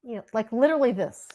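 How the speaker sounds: fast unvoiced whisper; hushed quick aside. Real, not acted. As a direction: breathe it out, no voice. Demonstrating the barely-there touch.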